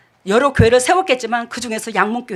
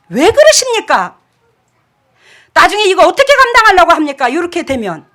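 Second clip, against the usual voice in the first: higher, louder scolding warning; raised-tone rebuke; 5 semitones higher, 6 dB louder than usual. Retold or imitated. Pastor warning a member of consequences, raised scolding voice. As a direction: press the warning hard. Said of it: "톤이 높아져가지고".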